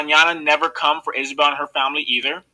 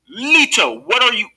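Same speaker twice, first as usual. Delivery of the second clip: higher, alarmed question breaking in; 7 semitones higher, 4 dB louder than usual. A narrator's reading. Isabel sees her grandfather about to jump, alarmed. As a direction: catch him before he does it.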